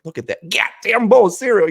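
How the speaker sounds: high, loud hammed-up ogling voice; mock leer. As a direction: leer at the cereal like it's sexy. Leering at a bowl of cereal.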